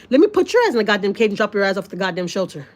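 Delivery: heated, mock-threatening rant; indignant, sweary outburst; retold fury. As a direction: replay your angry threat, rising at the end. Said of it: "I even got so mad".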